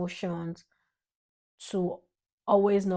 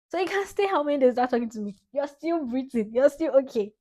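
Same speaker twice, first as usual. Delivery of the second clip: teasing scolding, higher pitch; mock reproach; 5 semitones higher than usual. Daughter mimicking dad's attitude to viewers, mock reproach. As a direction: tease like an offended dad. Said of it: "I learned the attitude of telling somebody".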